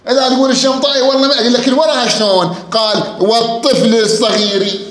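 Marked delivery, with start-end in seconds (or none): 3.2-4.8 "والطفل الصغير" slowly, each word ending in an i; kasra rhyme ending. Shown as a demonstration. Teacher proving the rhyme to students, "والطفل الصغير" slow with i endings. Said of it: "مكسورة".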